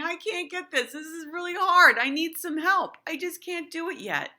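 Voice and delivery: teacher playing an eager, bouncing Tigger; bouncy Tigger. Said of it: "a Tigger who's bouncing up and down".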